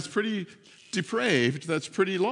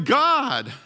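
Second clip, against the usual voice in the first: higher-pitched cry to God; retold crying out; 6 semitones higher, 4 dB louder than usual. Man tied to the wheel in a storm, retold crying out. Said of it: "he's just crying out".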